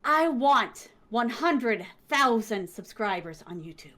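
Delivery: slow, deliberate big announcement; hyped-up declaration. Real, not acted. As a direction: declare it slowly, fading at the end. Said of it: "One more time".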